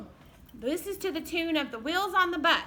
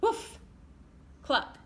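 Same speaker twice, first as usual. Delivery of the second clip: animal noises; 7 semitones higher, slower than usual. Acted. Teacher voicing farm animals while reading. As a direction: squawk it up high for the kids.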